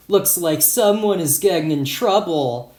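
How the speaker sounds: lightly mock a classmate; mild mocking. Boy at a nearby table to classmate, mildly mocking. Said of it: "A boy at a table near mine mocked".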